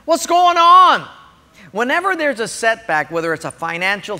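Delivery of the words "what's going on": high, anguished plea; acting out upset questioning; loud, drawn-out complaint. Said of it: "sometimes we get upset and say".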